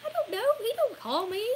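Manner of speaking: high whiny imitation of a viewer; mock complaining viewer. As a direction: squeak it out like a petty critic. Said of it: "come back and be like".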